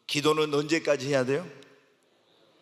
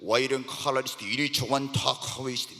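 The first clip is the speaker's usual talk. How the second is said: quick, lower, murmured tongues prayer; speaking in tongues; 4 semitones lower than usual. Shown as a demonstration. Preacher demonstrating Spirit-led tongues to his church, quick and murmured. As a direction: let the syllables run out unbidden. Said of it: "막 이러면서요".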